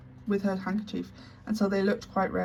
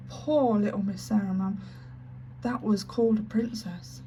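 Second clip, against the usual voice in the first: breaking into tears. Acted. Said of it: "breaking out fresh".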